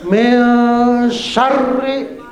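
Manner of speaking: short a in "syarri", weight on the r; correct short syar. Shown as a demonstration. Teacher modelling the verse, doubled r in "syarri". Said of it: "nggak boleh dibaca panjang".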